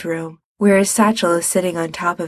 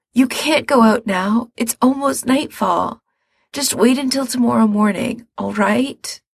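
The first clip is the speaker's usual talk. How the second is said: higher, anxious pleading; worried pleading; 5 semitones higher than usual. Acted. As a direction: plead with him to stay.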